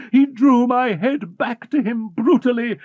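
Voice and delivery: ordinary delivery, nothing marked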